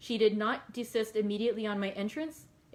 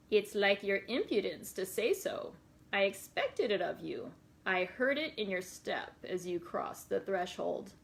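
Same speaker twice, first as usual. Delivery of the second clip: gypsy voice. Acted. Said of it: "I'm gonna try to do a little bit of a gypsy voice".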